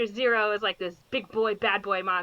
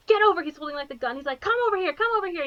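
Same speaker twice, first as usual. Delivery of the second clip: higher-pitched urgent dad orders; higher, insistent call; mock commanding dad; 6 semitones higher, faster than usual. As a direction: call her over insistently. Father ordering daughter over.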